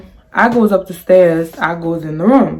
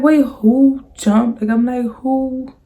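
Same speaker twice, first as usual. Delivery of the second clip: confused; 5 semitones higher, slower than usual. Retold or imitated. Confused retold question.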